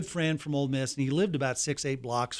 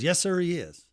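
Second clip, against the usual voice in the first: higher voice imitating a security man's answer; retold folksy reply, pitched up; Uncle Vester; 5 semitones higher than usual. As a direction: lightly impersonate the obliging gatekeeper. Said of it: "I can hear him talking just like this".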